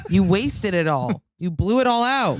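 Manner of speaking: laughing loudly while teasing. Real, not acted. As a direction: laugh through the words. Laughing at wasted vape.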